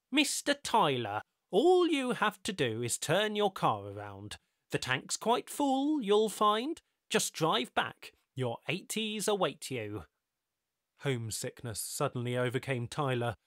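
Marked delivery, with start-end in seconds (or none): 0.1-10.1 lightly voiced smooth stranger; measured, knowing and patient; calm mysterious host. Ricardo voiced in the story.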